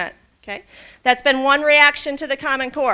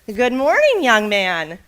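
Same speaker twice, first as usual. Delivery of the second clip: cheerful greeting; slower than usual. Acted. Boy greets old man.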